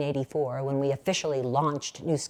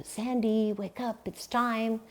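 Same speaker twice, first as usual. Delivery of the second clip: higher, hushed fatherly wake-up call, imitated; gruff yet tender; 6 semitones higher, 4 dB quieter, slower than usual. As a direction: gently imitate a dad rousing his sleeping child. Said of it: "by my father's gruff yet tender voice".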